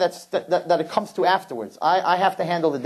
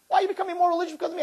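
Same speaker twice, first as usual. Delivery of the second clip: mock incredulous question; 13 semitones higher, 4 dB quieter, much faster than usual. Mocking the boy's claim.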